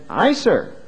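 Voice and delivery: bow and scrape with the words; mock fawning son. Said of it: "almost overly submissive, almost fawning".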